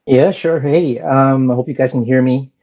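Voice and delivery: nasal, stuffed-up voice after illness. Real, not acted. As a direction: speak through a nasal, recovering voice. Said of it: "I sound a little bit more nasally".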